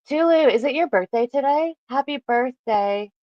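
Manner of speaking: excited. Real, not acted. Greeting a chat member's birthday.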